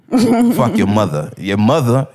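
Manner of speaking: "mother" with an open A for the ER; East Coast pronunciation. Shown as a demonstration. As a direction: drop the R from "mother", muh-thuh. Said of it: "That's how they sound".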